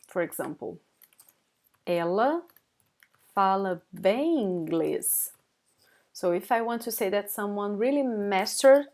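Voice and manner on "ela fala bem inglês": slow model sentence. Shown as a demonstration. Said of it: "I would say".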